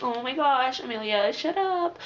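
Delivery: exasperated. Retold or imitated. Retelling exasperation with whiny character.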